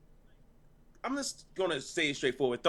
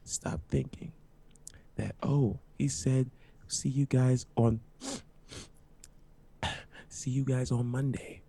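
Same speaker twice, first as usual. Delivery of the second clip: measured, word by word with long pauses; slow and deliberate; slower than usual. Shown as a demonstration. Podcaster telling the chat to stop thinking it, slow and deliberate. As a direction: spell it out slowly into the mic. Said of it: "I just wanna say this slowly".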